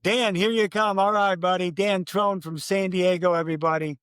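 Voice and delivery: mild retold announcer yell. Announcer calling his friend down to the finish line, mock yelling. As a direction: call a runner home, voice lifted. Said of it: "and I yell out".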